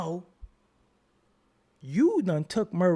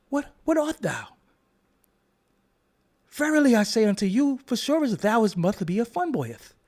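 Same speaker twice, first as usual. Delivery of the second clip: mock Shakespeare; 3 semitones higher than usual.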